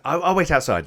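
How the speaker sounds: high, loud, stammered retreat; flustered. Acted. Escort excusing himself from the examination, flustered. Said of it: "he's getting a bit flustered".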